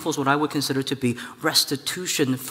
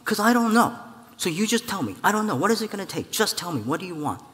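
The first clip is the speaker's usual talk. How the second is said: exasperated Israel; 6 semitones higher than usual. Acted. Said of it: "And Israel has said".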